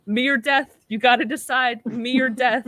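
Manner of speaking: mock-menace the crew like a petty AI; gleeful villain threat. Ergo the AI gloating at the crew, mock menace. AI voiced in retold plot.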